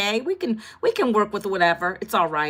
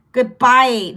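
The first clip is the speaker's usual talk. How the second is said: loud dismissive goodbye; 6 dB louder than usual. Real, not acted. Dismissing a hater, repeated.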